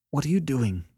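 high, choked demand; choking voice. A narrator's reading. Annette sees Beverly sweeping the floor, choking. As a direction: ask as if choking back tears. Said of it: "demanded Annette in a choking voice".

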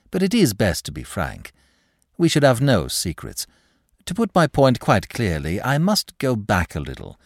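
lightly voiced smooth candour; suave, glib clerk. Clerk raises a delicate point with manager, suave. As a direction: lead up to it with measured politeness.

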